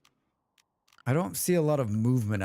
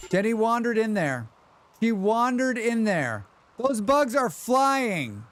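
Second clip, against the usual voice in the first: dramatic dismay; 9 semitones higher, 3 dB louder than usual. Real, not acted. Colonist dead, dramatic lament.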